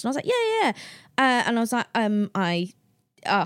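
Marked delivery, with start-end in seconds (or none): 0.2-0.7 flustered eagerness. Retold or imitated. Flustered reply to beautiful boy.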